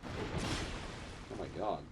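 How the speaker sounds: breathy whisper, slow. Real, not acted. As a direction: whisper it in dismay. Reacting to the game.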